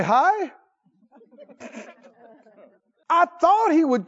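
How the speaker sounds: high, loud, slow indignant complaint; offended Naaman. Acted. Preacher playing Naaman complaining to his servants, loud and indignant. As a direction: whine like a proud commander slighted.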